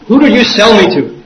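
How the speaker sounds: acted-out shocked question; alarmed question. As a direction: demand to know, aghast. Shocked monk demanding the buyer.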